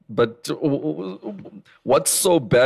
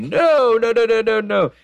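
excited protest; 12 semitones higher, 3 dB louder than usual. Real, not acted. Protesting her cringe remark.

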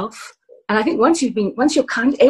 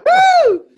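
high delighted cheer; excited whoop; 9 dB louder than usual. Real, not acted. Cheering for the dog.

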